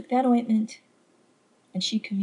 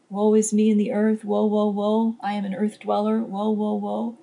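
mock self-pity. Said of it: "cry tears of self-pity".

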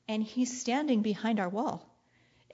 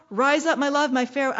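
excited lover; 2 semitones higher, 4 dB louder than usual. Retold or imitated. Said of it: "he's excited".

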